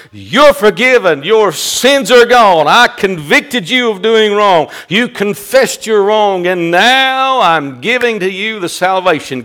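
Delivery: full-voiced, emphatic pronouncement of pardon; preached proclamation. Preacher voicing Christ granting salvation, full-force proclamation. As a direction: proclaim it boldly to the room.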